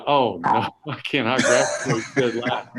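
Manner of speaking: laughing mock dismay. Retelling his dismay, laughing.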